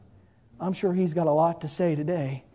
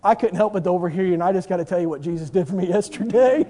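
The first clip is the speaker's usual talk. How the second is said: healed mute man; 4 dB louder, faster than usual. Acted. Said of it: "here comes the dumb man".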